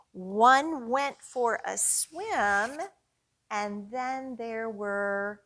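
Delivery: put-on slow sing-song rhyme for kids; counting rhyme. Story time host leading the penguin rhyme with toddlers. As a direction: chant it slowly so little ones follow.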